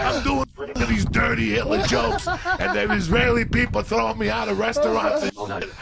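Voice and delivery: high, loud imitation of a young comic's rant; mock outraged shouting. Young comic thrown out of restaurants, in mock outraged shouting. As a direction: yell the complaint in hammed-up outrage.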